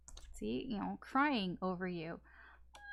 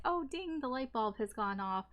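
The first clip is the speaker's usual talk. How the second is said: mock realization; 4 semitones higher than usual. Mock sudden realization quote.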